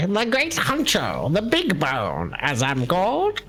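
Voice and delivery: boastful boss voice. Acted. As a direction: puff up like a villain boss. Plays the gang boss.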